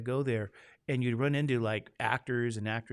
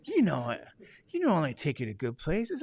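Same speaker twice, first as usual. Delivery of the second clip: a hint of a smooth romantic charmer; lightly voiced romantic husband; 2 semitones higher than usual. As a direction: sweet-talk her, lightly put on. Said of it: "I'll say it in my romantic voice".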